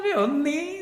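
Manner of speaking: high-pitched imitation of a balking teen; mock refusal. Teenager refusing the therapist's exercise, mock refusal. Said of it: "O cara falou".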